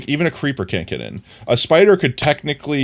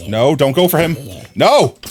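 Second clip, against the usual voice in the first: alarmed shout; 3 semitones higher, 4 dB louder than usual. Real, not acted. Mob attacks the test boy.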